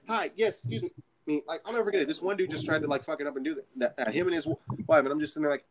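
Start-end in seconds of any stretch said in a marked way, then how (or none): 0.1-0.9 higher fake-polite greeting; mock polite. Worker stopping a shopper, fake-polite. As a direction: sweetly call out. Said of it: "I'll be like".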